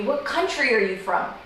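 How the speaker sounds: "country" picked out to correct the listener; correcting question. Retold or imitated. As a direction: stress on "country". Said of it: "they may correct me".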